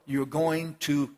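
drawn out, heavy words; slow stern pronouncement; slow firm sentence. Acted. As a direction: lay down the verdict slowly. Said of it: "No, no, no".

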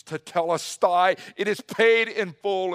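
loud, high cry from the cross; acted scream. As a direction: cry it out forcefully as Jesus. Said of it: "He screams".

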